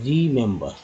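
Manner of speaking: रिमेंबर stretched out slowly, every syllable clear; रिमेंबर said very slowly and clearly; slow careful model. Shown as a demonstration. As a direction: drag रिमेंबर out for learners to copy. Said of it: "बहुत सावधानी से समझेंगे।".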